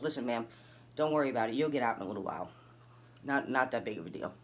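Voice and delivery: lightly voiced officer playing it down; calm reassurance. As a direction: quietly reassure someone it's nothing serious. Acts out lady reassuring her.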